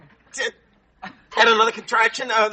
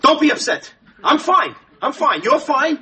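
agitated, slightly raised insistence; upset; 3 semitones higher than usual. Acted. Husband reassures his wife in labor, upset. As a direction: insist everyone is fine while clearly rattled. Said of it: "You're getting so upset".

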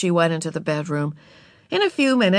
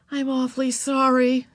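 put-on apologetic girl; 8 semitones higher than usual. A narrator's reading.

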